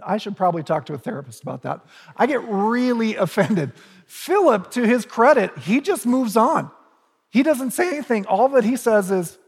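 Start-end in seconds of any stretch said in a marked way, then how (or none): 2.1-3.7 higher, laughing through the words. Shown as a demonstration. Preacher jokes about himself to the congregation, laughing. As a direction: laugh at yourself mid-line.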